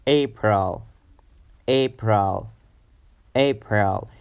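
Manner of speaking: April opening on the A of gray; careful AY-pril model; long A sound. Shown as a demonstration. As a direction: start April with a clear AY. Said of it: "like in the word gray".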